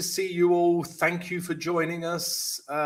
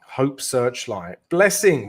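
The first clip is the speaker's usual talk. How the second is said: savouring the name; 4 dB louder, slower than usual. Real, not acted. Host admires a viewer's inspiring name, slow and fond. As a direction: linger on each word of the name. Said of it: "I love this name".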